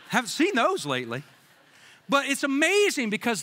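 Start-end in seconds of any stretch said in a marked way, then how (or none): 0.0-1.2 laughing through the joke; laughing sarcasm. Real, not acted. Pastor joking to the church, laughing through it. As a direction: poke fun while chuckling.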